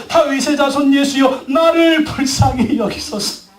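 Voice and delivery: drawn-out, imploring call; crying out to God. Shown as a demonstration. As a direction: demonstrate a cry for mercy, slowly stretched. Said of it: "어떻게 소리 질러야 됩니까?". (길게 늘여 간절히 부르짖듯)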